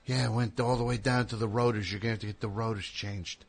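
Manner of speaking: a lightly voiced mechanic; imitating a mechanic. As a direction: play the mechanic with a slight change of voice. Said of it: "the mechanic's just like".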